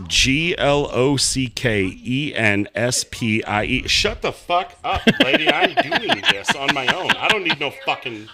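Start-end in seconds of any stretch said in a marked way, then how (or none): 0.1-3.9 slow letter-by-letter robotic spelling; Google voice spelling. Pretend. Spelling into Google on his phone, slow robotic letter by letter. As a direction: spell it out like a voice assistant. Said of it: "He sounded like the Google voice".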